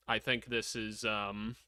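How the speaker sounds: hushed, unvoiced aside; whispered. Real, not acted. Streamer whispering his worry to chat. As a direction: whisper it like a worried secret.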